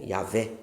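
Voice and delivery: "Yahvé" said softly, V sound, stress on "vé"; quiet demo pronunciation. Shown as a demonstration. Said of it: "como você queira pronunciar". ("Yahvé" dito baixinho, com som de V)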